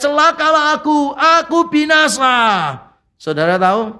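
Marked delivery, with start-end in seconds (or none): 0.0-2.3 high anguished cry of doom; Isaiah crying out. Retold or imitated. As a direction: cry out as a man undone. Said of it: "ketika Yesaya berteriak".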